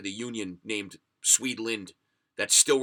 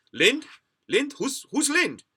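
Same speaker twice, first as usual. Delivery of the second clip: stern cop calling out; 6 dB louder, slower than usual. Retold or imitated. Cops questioning him at roadside.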